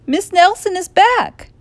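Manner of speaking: principal voice. A narrator's reading. Blansworth voiced.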